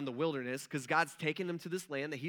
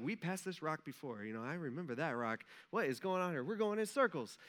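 imitated grumbling. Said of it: "they start complaining about that".

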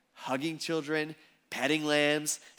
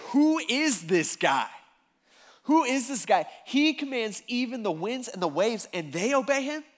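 fearful amazement; 5 semitones higher than usual. Retold or imitated. Disciples asking one another about Jesus, amazed. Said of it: "and amazed at the same time".

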